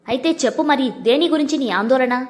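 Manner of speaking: plain reading voice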